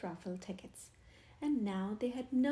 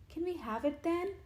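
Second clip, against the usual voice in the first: higher eager question; excited; 6 semitones higher, 3 dB louder than usual. A narrator's reading. Stanley asks the students for the tree, excitedly. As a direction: ask eagerly. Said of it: "Stanley asked excitedly".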